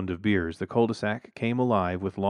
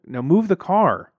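firm demand; 9 semitones higher, 7 dB louder, slower than usual. A narrator's reading. Fed-up demand.

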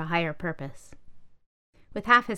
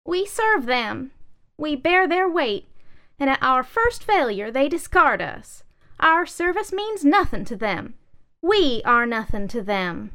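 much higher, loud lament; bitter chair; 8 semitones higher, 6 dB louder than usual. Acted. Wobbly chair lamenting to the manifesto, high and loud. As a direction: grieve the thankless service.

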